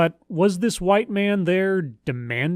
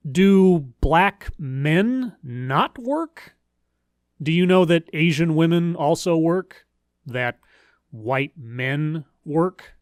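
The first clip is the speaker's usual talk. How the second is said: slow, spaced-out questions rising at the end; mock-incredulous questions; slower than usual. Real, not acted. Commentator challenging the claim that black women work, mock-incredulous. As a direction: spell it out slowly, as if puzzled.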